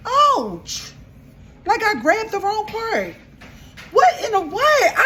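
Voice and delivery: high yelp of pain; burnt fingertips. Real, not acted. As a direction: cry out from the sting. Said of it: "I just really burnt my hand".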